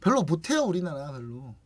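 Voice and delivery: mock-modest, playing down any ability; downplay it like a harmless underachiever; feigned helplessness. Korea pleading weakness to other countries, feigned helplessness. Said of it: "우리나라는 자꾸 엄살 부리지".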